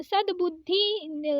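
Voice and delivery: सद्बुद्धि said slowly, half द then बुद्धि; slow careful pronunciation. Shown as a demonstration. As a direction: ease through सद्बुद्धि syllable by syllable. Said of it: "ऐसे लिखेंगे". (सद्बुद्धि धीरे, पहले आधा द फिर बुद्धि)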